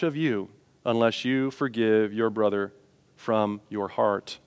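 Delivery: solemn scripture reading. A narrator's reading. Preacher closing the parable to the congregation, solemn reading. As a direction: weigh each phrase, softening toward the end.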